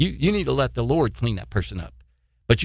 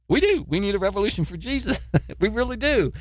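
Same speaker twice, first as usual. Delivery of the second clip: fervent declaration; 6 semitones higher than usual. Real, not acted. Preacher declares need for revolution.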